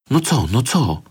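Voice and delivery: high, eager little questions; children itching to know, kept light; curious. A narrator's reading. Children pressing their friend for the secret, eager and curious. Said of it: "zaciekawiły się dzieci".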